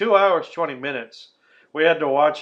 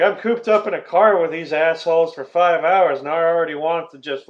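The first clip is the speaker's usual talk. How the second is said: louder, higher exasperated rant; mock exasperation, emphatic; fed up; 3 semitones higher, 6 dB louder than usual. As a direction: voice a man sick of his passengers. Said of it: "he is already sick of them".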